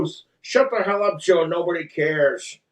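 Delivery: fast, lightly voiced annoyed cartoon dad; mildly dismissive cartoon dad voice; Peter Griffin. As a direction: cut them off as an oafish cartoon dad. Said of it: "do a Peter Griffin voice".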